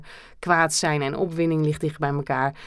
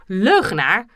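mock angry. Role-play quarrel, calling him liar.

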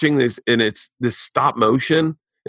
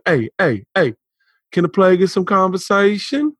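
put-on smooth-talk it in a Black American accent, rising at the end; Black guy accent; 6 semitones higher than usual. Man fresh out of jail calls for talk, Black American accent. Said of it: "put the black guy voice on it".

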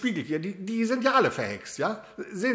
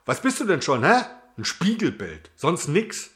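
angry; 5 semitones lower, 4 dB louder than usual. Acted. Shouting at mirror.

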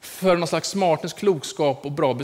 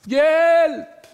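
high, loud repeated cries of help, climbing higher; old woman crying for help; 7 dB louder, much slower than usual. Retold or imitated. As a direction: call out for help from the bedroom. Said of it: "hur de ropade". (höga, starka rop på hjälp som stiger)

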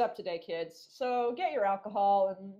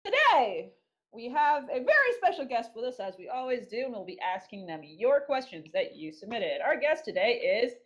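lightly announced podcast introduction; show host voice. Acted. Host introducing a special guest to listeners, announcer voice. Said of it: "put on my Flutter Priest voice".

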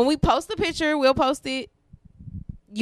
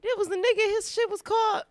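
retelling herself; 9 semitones higher than usual. Retold or imitated. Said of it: "I was trying to tell somebody, like".

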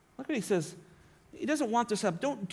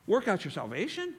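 puzzled objector. Retold or imitated. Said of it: "You go".

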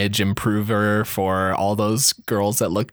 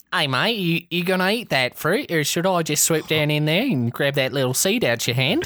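put-on higher, lively Australian accent; Australian bat; 4 semitones higher than usual. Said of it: "like, Australian accents".

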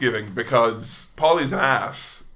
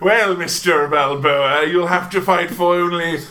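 mustache twirling villain; 3 semitones higher, 4 dB louder than usual. Retold or imitated. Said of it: "mustache twirling".

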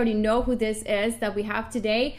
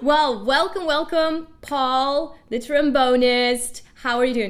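excited welcome; 3 semitones higher, 6 dB louder, slower than usual. Real, not acted. Host welcoming guest onto show.

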